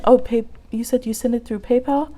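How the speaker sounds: ordinary talk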